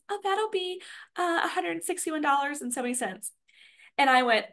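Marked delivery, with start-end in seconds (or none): 0.1-3.3 high, soft imitation of the cashier; changed attitude. Cashier giving the grocery total, changed attitude. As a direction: mimic her switched attitude, pitched up and quieter. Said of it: "she changed her attitude".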